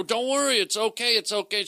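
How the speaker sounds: high-pitched, flustered reassurance; retold panicky attempt to soothe her; freaking out. Comic retelling his plea to the producer, mock freaking out. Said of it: "now I'm, like, freaking out".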